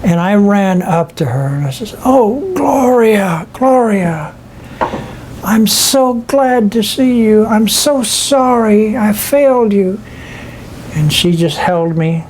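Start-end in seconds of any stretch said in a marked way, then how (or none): 2.0-10.0 higher, slow, aching plea to his lost wife; begging her forgiveness with a catch in the voice; a man pleading with the wife he lost; tearful plea. Retold or imitated. Reunion with late wife, pleading.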